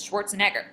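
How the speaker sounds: "Schwarzenegger" with two beats, SCHWARZ and NEG; "Schwarzenegger" said to show its two stresses. Shown as a demonstration. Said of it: "There's two stresses".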